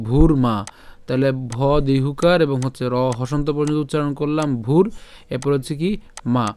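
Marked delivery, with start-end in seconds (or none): 0.1-0.6 ভূর মা with long u and clear r; model pronunciation. Shown as a demonstration. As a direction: sound the r in ভূর before মা. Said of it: "তাহলে উচ্চারণটা কেমন হবে?". (ভূর মা, র হসন্ত স্পষ্ট)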